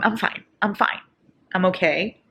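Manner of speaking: steady yourself against crying, fading as you go; holding back tears. Real, not acted. Reader bracing for the final chapter, holding back tears. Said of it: "I already wanna cry".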